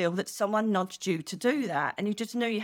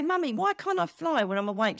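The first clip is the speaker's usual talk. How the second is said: put-on child voice; 7 semitones higher than usual. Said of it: "I used to say".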